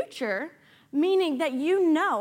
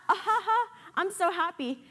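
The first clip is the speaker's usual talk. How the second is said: light giddy laughing, pitched higher; happy laugh; 4 semitones higher than usual. Retold or imitated. Preacher mimics a carefree, delighted laugh. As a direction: laugh like nothing's wrong at all.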